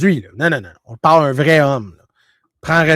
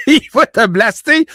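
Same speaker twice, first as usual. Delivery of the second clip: grand-père qui engueule; 9 semitones higher, 8 dB louder than usual. Retold or imitated.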